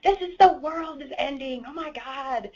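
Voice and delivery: doom-laden whine about the furnace; imitating husband. Wife mimicking husband's panic over the broken furnace, mock wail. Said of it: "He's like".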